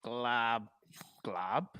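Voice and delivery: gurgling words through chewing gum; mouth full. Real, not acted. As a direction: talk with gum in your mouth. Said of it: "you're chewing some gum".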